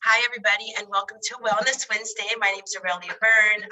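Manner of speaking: stuffy, congested voice; talking through a head cold; blocked nose. Real, not acted. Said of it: "I sound a little stuffy".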